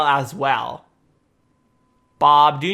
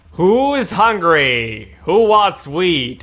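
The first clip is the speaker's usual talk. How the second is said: mad scientist; 3 dB louder, slower than usual. Acted. Villain feeding villagers wheat.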